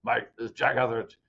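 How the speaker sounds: imitating a caller's slightly rough voice; hint of a rough phone-caller voice, lightly done. City manager calling a recruit on Sunday morning, slightly rough voice. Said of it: "a little bit of a rough voice".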